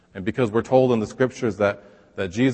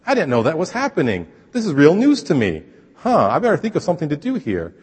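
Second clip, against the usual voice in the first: higher, mock astonished voice; shocked God; 5 semitones higher, 4 dB louder than usual. Pastor mocking a shocked God, higher and surprised. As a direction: play a startled, clueless God for laughs. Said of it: "he's shocked and says".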